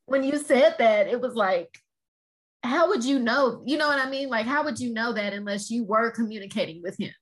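fighting back tears while talking; teary. Real, not acted. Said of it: "I'm getting teary-eyed".

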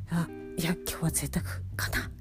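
quiet murmured thought to self; half-whispered musing; hushed inner thought. Retold or imitated.

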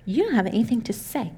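soft, small doubting voice; a quiet nagging voice in the head; murmured self-doubt; tiny inner voice. Retold or imitated. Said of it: "this tiny voice in my head, being like".

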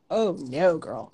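doubtful self-talk. Retold or imitated. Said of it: "turning that advice around on me".

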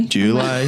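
"July" as JOO-lie; gran's "JOO-lie" echoed; American-sounding pronunciation. Retold or imitated. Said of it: "That's quite American".

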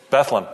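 Bethlehem in two syllables, BETH-lem; local pronunciation. Shown as a demonstration. Local corrects the host, Bethlehem said as two-syllable Beth-lem. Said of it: "you gotta say it right".

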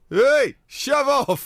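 lightly voiced ghost, high and slow; a hint of a spooky ghost. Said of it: "it says".

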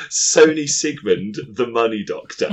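grand announcer voice. Pretend.

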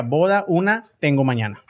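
words in reverse order; backwards speech. Shown as a demonstration. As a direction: read the sentence backwards. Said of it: "Al revés sería".

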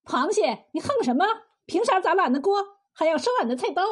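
mild, indignant challenge. Acted. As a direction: challenge him with a slightly lifted voice. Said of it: "柳三娘大声说道".

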